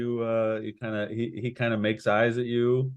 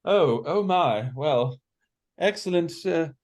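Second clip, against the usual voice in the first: taken aback; 8 semitones higher than usual. Acted. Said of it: "he's sort of taken aback".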